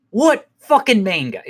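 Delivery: high, slow mock outrage; Mad Max. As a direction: imitate an incredulous, irate husband. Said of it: "that dude get all mad and shit".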